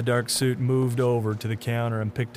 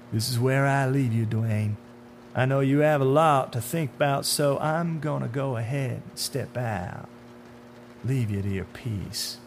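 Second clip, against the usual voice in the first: slightly raised, falsely considerate farewell; sinister man in dark suit; 3 semitones higher than usual. Acted. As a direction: take your leave with understated menace.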